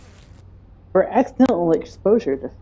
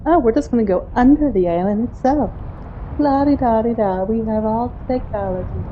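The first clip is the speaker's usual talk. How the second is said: mock smug children; 4 semitones higher than usual. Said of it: "if they found a way to just simply".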